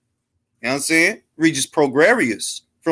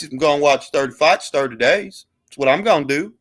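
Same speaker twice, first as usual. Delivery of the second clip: Texas drawl; 4 semitones lower than usual. Pretend. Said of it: "I'm gonna talk like this".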